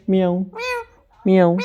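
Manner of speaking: lightly voiced 'meow'; short demo meows for a parrot to copy; cat imitation. Shown as a demonstration. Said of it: "बिल्ली कैसे बोलती है?". (बिल्ली की हल्की नकल, म्याऊं)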